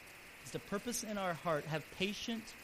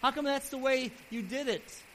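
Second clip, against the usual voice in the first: Job's raised, pleading complaints; arguing with God; 6 semitones higher, 7 dB louder than usual. Retold or imitated. Job questioning God in his trials, with loud, indignant arguing. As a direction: push back at God, higher and louder. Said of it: "he would argue about it".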